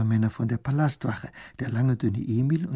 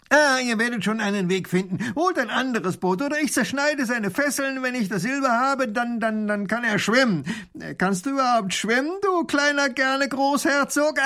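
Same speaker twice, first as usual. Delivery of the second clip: boastful robber; 11 semitones higher, 3 dB louder than usual. A narrator's reading. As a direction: sneer at the puny ruler like a cocky bandit. Robber taunts. (frecher Räuber mit hoher, höhnischer Stimme)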